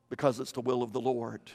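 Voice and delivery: dropped low and soft, a little quick; hushed certainty; quiet answer. Real, not acted. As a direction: say it softly, almost to yourself. Preacher answers his own question.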